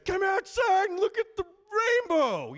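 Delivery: high, loud yell upstairs; yelling to the kids. Retold or imitated. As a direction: call the kids down excitedly. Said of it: "And I yell at the kids".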